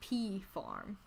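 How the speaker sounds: soft mumbled pea farm; quiet murmur. Shown as a demonstration. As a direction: say it low and under breath. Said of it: "quiet first take".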